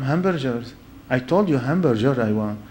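"hamburger" with a J sound for the G; foreign mispronunciation. Retold or imitated. Newcomer insisting on his third try, "hamburger" as ham-bur-jer. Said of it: "they don't understand the foreign accent".

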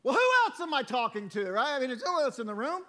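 doubting aloud, are you sure it's me; incredulous self-questioning. Retold or imitated. Preacher retelling his doubt to God, incredulous and loud. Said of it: "and you start going".

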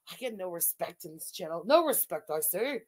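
British soap character's put-on accent; Fred Elliott impression. Soap character complaining of no respect, hammed-up British accent. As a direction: grumble as a mock British soap man. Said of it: "you know who that was".

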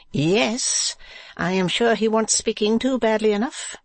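high-pitched wifely pout. A narrator's reading. Wife complaining to her husband about the man, high pouting voice. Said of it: "said Madame, pouting".

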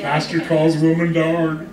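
slow mock headline read-out; newspaper headline. Pastor imagines the paper writing him up, mock headline. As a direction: announce it word by word like a scandal headline. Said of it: "write me up, man, in the paper".

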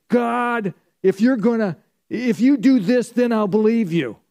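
high, loud mock defiance; defiant challenge to God. Preacher voicing people who shake their fist at God, loud mock defiance. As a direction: shake your fist and demand a sign. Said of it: "people shake their fist at God and say".

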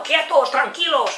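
high, loud drawn-out classroom shouting; bellowing teacher. Retold or imitated. Teacher berating a restless class, bellowing. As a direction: imitate a teacher yelling orders at the class. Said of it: "está berreando todo el rato".

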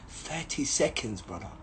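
quiet, slow scornful repeat; mocking under breath. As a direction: mutter it back with contempt. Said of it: "repeating the officer's words, mocking".

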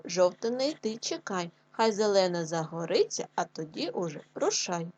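put-on measured, rhythmic verse for young pupils; lively singsong classroom recitation; children's poem reading. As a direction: recite the little rhymes clearly, line by line.

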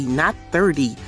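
ordinary talk

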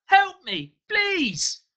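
loud, very high cry for help; desperate plea. A narrator's reading. Mugger on his knees in agony, screaming for help. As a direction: beg at a near scream.

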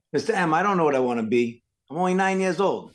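a hint of a protesting kid, pitch lifting at the end; lightly voiced pupil. Nine-year-old pupil balking at teacher's question, mild protest. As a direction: lightly imitate a child's plea to a teacher.

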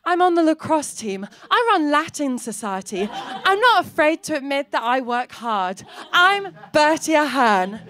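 put-on bright, peppy head-girl voice; imitating perfect schoolgirl. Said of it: "She was like".

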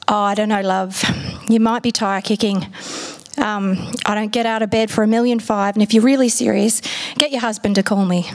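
lightly put-on broad Aussie tradie accent, dismissive; a hint of a gruff Australian builder brushing her off; builder's accent. Australian builder dismissing a woman caller, in a mild broad accent. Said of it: "I'm going to do the accent he did".

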